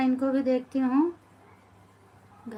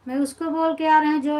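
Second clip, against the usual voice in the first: fast, louder protest that she isn't angry; quick defensive denial; 2 semitones higher, 5 dB louder than usual. Real, not acted. To a viewer asking if she's angry, fast insistent denial.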